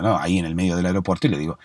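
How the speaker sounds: ordinary delivery, nothing marked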